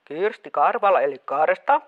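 mother hides her voice from her daughter; disguised caller voice. Acted. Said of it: "sun ääni kuulostaa jotenkin erilaiselta".

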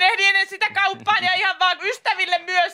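high, strained over-explaining; pakonomainen selittely. Acted. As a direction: blurt excuses in a high, held-in squeal. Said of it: "sä yrität pidätellä sitä". (kimeä, pidätelty selittely)

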